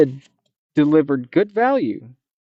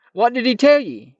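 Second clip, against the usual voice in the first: put-on young man voice; 8 semitones higher than usual. Bink asks the monster.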